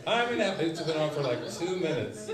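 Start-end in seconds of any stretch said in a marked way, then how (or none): 0.1-0.6 much higher, louder wail; mock scream. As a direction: wail it in torment. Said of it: "she was just like".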